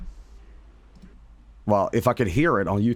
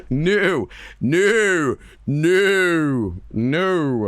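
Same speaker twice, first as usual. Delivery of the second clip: high, drawn-out repeated no's, easing off; protesting in a high voice; emphatic refusal; 6 semitones higher, 3 dB louder, much slower than usual. Real, not acted. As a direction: refuse in long, high-pitched swoops. Refusing to do impersonation.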